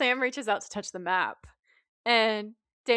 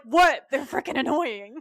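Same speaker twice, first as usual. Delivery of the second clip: louder indignant protest; 4 semitones higher, 5 dB louder than usual. Retold or imitated. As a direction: defend yourself, outraged. Dean defends pulling gun.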